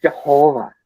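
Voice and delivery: Jehovah with the O stretched and stressed; Midwest-style Jehovah, long O; emphasis on the O. Retold or imitated. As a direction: lean hard on the O in Jehovah. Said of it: "Like the emphasis on the O".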